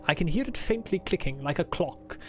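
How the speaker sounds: a lightly put-on formal diary accent; Adler's put-on accent. Streamer reading Adler's diary aloud, lightly put-on accent. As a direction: read it as the stiff diarist, with only a hint of accent. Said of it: "Why do you think I'm doing this accent for him?".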